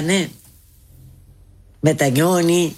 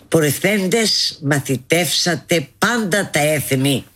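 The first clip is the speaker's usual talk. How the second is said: scripture quote. Retold or imitated. Quoting scripture solemnly.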